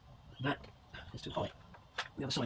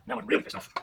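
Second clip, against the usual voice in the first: real frustration; 9 semitones higher, 5 dB quieter, much faster than usual. Real, not acted.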